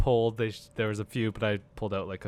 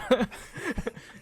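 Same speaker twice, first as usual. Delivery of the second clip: bat noise; 13 semitones higher than usual. Acted. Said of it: "What was that you just did?".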